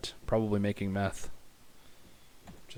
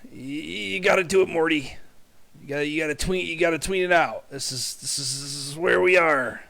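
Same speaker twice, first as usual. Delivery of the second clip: much higher, louder, strained Rick voice; bad Rick impression; 6 semitones higher, 9 dB louder than usual. Streamer tries Rick again, yelling at Morty to tween. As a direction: push it up into a cartoon scientist yelling at Morty. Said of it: "That was a really bad impersonation".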